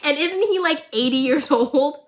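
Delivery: a light touch of incredulous worry; disbelief. Retold or imitated. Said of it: "I was like".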